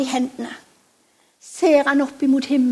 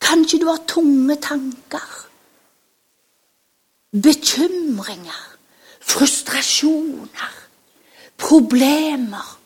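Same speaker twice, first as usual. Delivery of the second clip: whisper; much slower than usual. Acted. Confiding to children.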